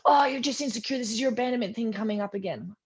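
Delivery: high, brushing-off partner voice; dismissive partner. Retold or imitated. Partner brushing off her suspicion, mildly dismissive. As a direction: wave her worry away lightly.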